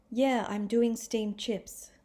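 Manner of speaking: slow, dry imitation of a sarcastic reply; mock sarcasm. Teacher retelling a contestant's reply, lightly sarcastic. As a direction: lightly mimic her scornful answer. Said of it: "listen to the way she says it".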